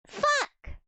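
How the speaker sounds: sharp high curse at herself; frustrated swear. Real, not acted. Forgot the word, swears.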